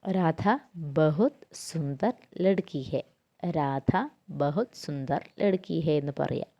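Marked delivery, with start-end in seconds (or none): 0.1-3.0 each Hindi word set apart slowly; teacher spelling out the example for students, slow and clear; slow example sentence. Shown as a demonstration. Slow, deliberate dictation. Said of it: "For example ആയിട്ട് പറയുകയാണെങ്കിൽ".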